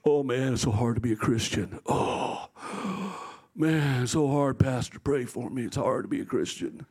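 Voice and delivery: low, sighing mock lament; struggling churchgoer. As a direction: imitate a worn-out complainer with heavy sighs. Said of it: "I get these people sometimes".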